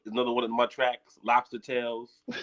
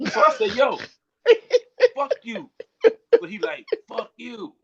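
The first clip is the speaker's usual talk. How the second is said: high retold curse, half laughing; a light imitation of the fight; mock retold quarrel; 12 semitones higher, 6 dB louder than usual. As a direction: replay the argument, amused.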